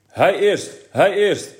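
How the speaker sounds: high, loud retold cry of hij eerst; mock call. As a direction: call it out like a boy shouting for help. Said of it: "En toen riep u".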